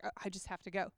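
low, soft surrender; quiet resolve. Retold or imitated. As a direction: drop the voice right down, giving in. Quietly yielding to God's call.

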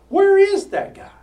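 high, loud furious yell; angry shout. Acted. Saul yelling across the table at Jonathan, furious shout. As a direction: bellow it like an enraged king.

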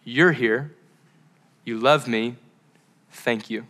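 unhurried, tender prayer words; simple prayer. Shown as a demonstration. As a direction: pray it slowly with long pauses. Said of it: "what if your simple prayer was".

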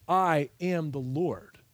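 slowed, weighty "I am the Lord" with a punch on "I"; slow emphatic refrain. Shown as a demonstration. Preacher stressing the chapter's refrain, slow and weighty. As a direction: land it like an exclamation point. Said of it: "exclamation point is".

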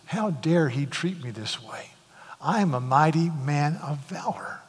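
a seething, whispered fury; a soldier's wounded pride, whispered; angry whisper. Retold or imitated. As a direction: hiss out the outrage under the breath. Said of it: "Naaman was filled with anger".

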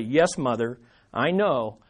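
Jesus gently soothing his mother, soft and low. Retold or imitated. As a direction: ease it out tenderly to his mother. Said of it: "Jesus could have said very gently".

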